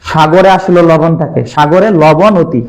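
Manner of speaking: slow, chant-like memory rhyme; slow mnemonic. Shown as a demonstration. Teacher chanting memory rhyme for students. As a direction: drill the rhyme slowly. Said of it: "মনে রাখবা".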